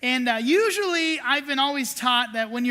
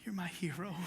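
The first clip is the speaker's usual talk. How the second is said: whispered you're my hero; 8 semitones lower, 15 dB quieter than usual. Retold or imitated. Pastor telling his friend Johnny he admires him, in a whisper. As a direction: breathe it in awe.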